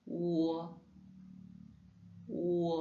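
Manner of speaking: "ou" round and long. Shown as a demonstration. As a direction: hold a rounded "ou" out. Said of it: "qu'on dit ou".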